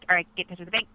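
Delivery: normal talking voice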